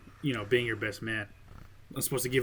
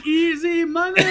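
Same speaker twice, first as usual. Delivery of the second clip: high mock line; 7 dB louder, slower than usual. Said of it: "I just bend over going".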